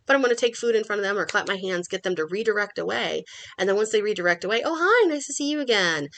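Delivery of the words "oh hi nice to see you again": high, sing-song hello; cheerful greeting. Retold or imitated. Trainer greeting the dog after it turns away from the trash, high and cheerful. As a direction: greet the dog like an old friend.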